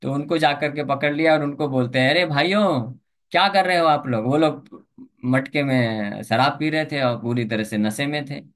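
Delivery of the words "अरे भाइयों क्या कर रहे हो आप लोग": raised, higher call to the brothers. Retold or imitated. Devotee calling out to the drunk brothers, raised voice. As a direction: hail them from a distance, a touch louder.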